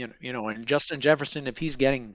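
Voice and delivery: talking while crunching ice; chewing ice. Real, not acted. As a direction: speak around a mouthful of ice. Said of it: "sorry, I'm chewing ice here".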